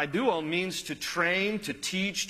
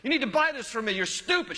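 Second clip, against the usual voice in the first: put-on high, bratty child's yell; whiny kid screaming at his mom in the aisle; 8 semitones higher than usual. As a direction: mimic a shrieking child insulting his mom. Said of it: "he just kept saying it".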